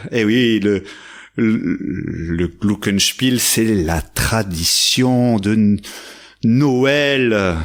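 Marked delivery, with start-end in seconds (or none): 1.4-3.4 Glockenspiel slow, first syllable drawn out; stretched Glockenspiel. Shown as a demonstration. Storyteller repeating the name for children, stretched slowly. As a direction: lean long on the Glock of Glockenspiel. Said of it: "on étire bien la première syllabe".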